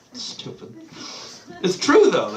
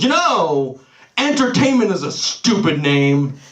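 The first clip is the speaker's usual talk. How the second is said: mildly exasperated mock outburst, slightly raised pitch; mounting annoyance; 2 semitones higher, slower than usual. Brother turns from staring at the wall to vent, mock angry. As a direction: imitate an angry brother breaking his silence. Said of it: "getting visibly angrier and angrier".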